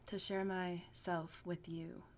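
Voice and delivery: slow, whispered, suggestive; sultry whisper. Shown as a demonstration. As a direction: breathe it out suggestively. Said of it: "it sounds very, like, intimate and sexual".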